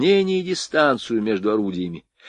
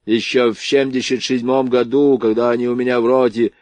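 livened up; 3 semitones higher, 4 dB louder than usual. Acted. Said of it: "оживился генерал".

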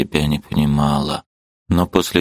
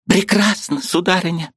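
put-on high, indignant old woman's voice; angry old aunt; 13 semitones higher than usual. Aunt bursting in to scold her niece, high and indignant.

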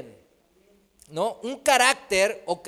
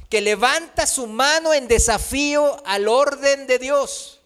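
preaching build; 4 semitones higher, 5 dB louder than usual. Real, not acted. Preacher at full force.

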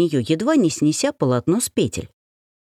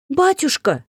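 high piercing shriek; 10 semitones higher than usual. Acted. The heroine shrieks at the apparition in feigned terror. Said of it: "завизжала я".

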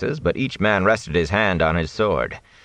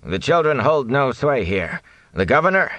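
weaker tone; 7 semitones higher than usual. Acted. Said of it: "finished in a weaker tone".

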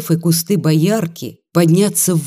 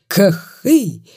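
громкое кряканье; 3 semitones higher than usual. A narrator's reading. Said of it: "крякнул громко по-цыгански".

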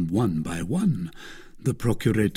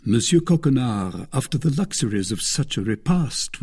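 usual speaking voice

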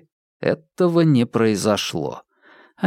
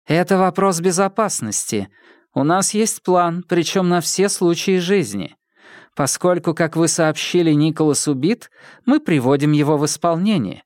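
woman character voice; 6 semitones higher than usual. Acted. Dylda explains the plan.

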